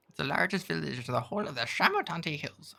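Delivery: high, breathless sprite whisper; whispery creature voice. Acted. Tiny creature Jan describes the village in a high whisper. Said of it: "I'm gonna stop this voice".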